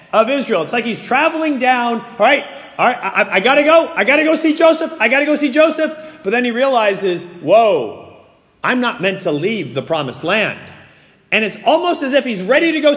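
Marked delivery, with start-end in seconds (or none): 2.0-6.0 mildly hurried, higher-pitched eagerness; a touch of impatient excitement, repeating himself; eager Jacob. Acted. Preacher voices Jacob itching to see his son, eager. 7.2-10.6 pulled up short on a lower note; mild, lowered voice of second thoughts; sudden realization. Acted. Preacher voices Jacob halting at the border, sobered.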